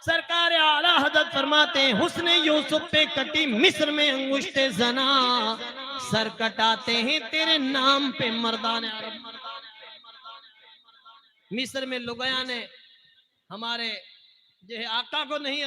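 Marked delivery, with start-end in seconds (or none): 1.9-9.4 measured verse recital, last line drawn out; couplet recitation. Acted. Preacher quoting Ala Hazrat's couplet, verse recitation. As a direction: recite it as solemn poetry.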